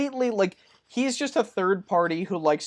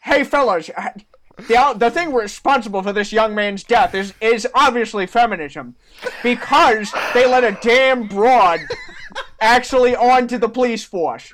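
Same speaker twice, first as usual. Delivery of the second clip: lightly voiced 1950s announcer, laughing; a hint of an old-time radio host; 2 semitones higher than usual. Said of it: "a nineteen fifties announcer voice".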